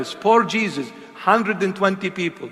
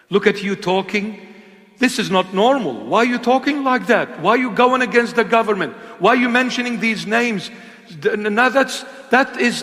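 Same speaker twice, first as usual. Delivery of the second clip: higher, scornful voice of the accusers; mocking critics; 6 semitones higher, 4 dB louder than usual. Preacher imitating critics who call him sick, higher and scornful. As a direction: sneer like people calling him sick. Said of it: "they're not gonna call me sick in the head".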